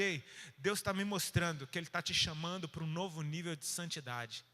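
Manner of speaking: mild, tactful prophetic word; gentle encouragement. Acted. Speaker approaching a struggling man with God's calling, tactful and encouraging. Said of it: "É muito mais fácil você chegar pra ele".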